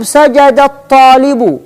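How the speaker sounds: سجد الطالب linked as "sajadat-taalibu", measured out for writing; teacher dictating سجد الطالب لربه; dictation to a pupil. Shown as a demonstration. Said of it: "تقول اكتب".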